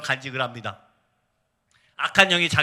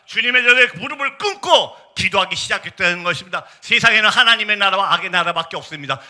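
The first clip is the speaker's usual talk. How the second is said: 힘주어 설교; 5 dB louder than usual. Real, not acted. Preacher pressing the point home.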